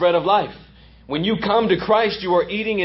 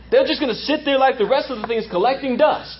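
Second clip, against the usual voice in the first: lightly voiced grumbling dad, a bit higher; dad impression; 4 semitones higher than usual. Preacher quoting dad on unused gear, lightly imitated complaint. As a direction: keep up a hint of the doubting dad. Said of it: "That's how my dad would say it".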